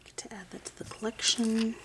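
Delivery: soft whisper to herself while working; whispered aside. Real, not acted. Viewer watching her polish, a soft whisper. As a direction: breathe the words, no voice.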